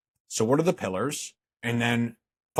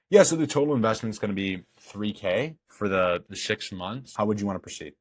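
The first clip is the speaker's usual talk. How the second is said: calm price drop. Shown as a demonstration. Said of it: "That's all you say".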